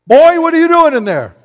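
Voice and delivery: high, loud yell down into the well; trooper's yell. Retold or imitated. State trooper yelling at the boy in the well. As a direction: bark it like a cop catching a kid.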